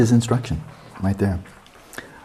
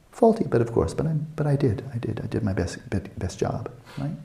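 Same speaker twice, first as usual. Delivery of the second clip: high at first, then a whispered self-defense; sheepish excuse; 3 semitones higher, 6 dB quieter than usual. Acted. Meditator insisting they did their best, trailing into a whisper. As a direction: mumble it like an excuse caught out.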